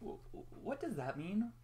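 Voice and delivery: put-on high, slow, stammering child voice; a small confused kid asking; confused little filly. A narrator's reading. Scootaloo asks the nurse, high and stammering in confusion. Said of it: "she was confused".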